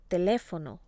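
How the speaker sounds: "Teléfono" with the weight on LÉ; stress on accented syllable. Shown as a demonstration. Teacher models written accents, stress on the marked syllable. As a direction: punch the second syllable of "Teléfono". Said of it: "to stress the correct syllable".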